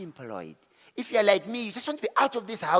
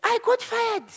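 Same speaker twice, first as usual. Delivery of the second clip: laughing confession; 8 semitones higher, 5 dB louder than usual. Real, not acted. Confessing getting fired, laughing.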